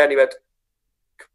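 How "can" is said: slow, pleading cop's request; eager cop. Retold or imitated. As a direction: beg for a taste, drawn out. Welsh cop asks for Guinness.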